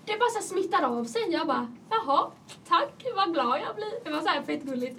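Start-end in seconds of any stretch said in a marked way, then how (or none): 0.0-1.2 high-pitched imitated classmate; gushing reassurance. Classmates praise her laugh, gushing retold reassurance. 1.9-4.0 high, slow retold thanks; touched thanks. Answering classmates' compliment, touched retold thanks.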